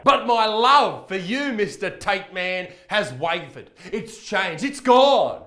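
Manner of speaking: loud, slow hammed-up lament; mock heartbreak. Vlogger tells Tate his love is gone, in loud mock lament. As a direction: wail it like a jilted lover, tongue in cheek.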